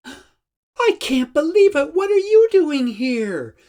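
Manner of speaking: put-on old friend spotted around the corner, wild excited shriek; wild excited greeting. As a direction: shriek it at an old friend you never expected to see. A great big hug and wild excitement.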